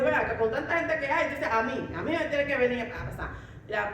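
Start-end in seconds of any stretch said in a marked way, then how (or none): 0.0-1.2 retold angry outburst. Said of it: "Me enojé".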